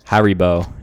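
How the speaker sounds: Haribo said HA-ree-bo; relayed pronunciation. Retold or imitated. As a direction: repeat Haribo with HA up front and a clear REE. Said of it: "he says".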